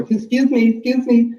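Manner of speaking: mock customer calling out; snooty customer call. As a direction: play the demanding shopper calling staff over. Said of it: "They call me over".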